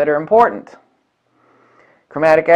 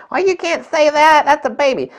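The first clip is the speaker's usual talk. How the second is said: much higher, indignant put-on voice; mock offended parent; 10 semitones higher than usual. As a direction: squeal like an insulted parent. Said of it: "It's like".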